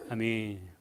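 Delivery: usual speaking voice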